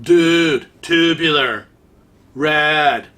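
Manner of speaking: drawn-out mock Los Angeles surfer accent. Mocking someone from Los Angeles for viewers, exaggerated LA accent. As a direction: put on an LA accent, each word stretched and set apart. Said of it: "someone from Los Angeles".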